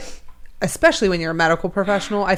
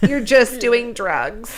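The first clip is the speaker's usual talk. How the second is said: put-on slow, higher prim old lady; 5 semitones higher, slower than usual. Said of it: "That was a great, like, old lady voice".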